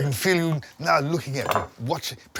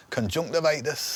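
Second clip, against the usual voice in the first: Lancashire accent. Shown as a demonstration. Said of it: "accent for certain words".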